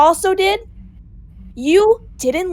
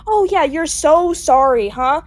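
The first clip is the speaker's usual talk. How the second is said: slow sarcastic "so sorry"; drawn out and mocking; mocking his apology; slower than usual.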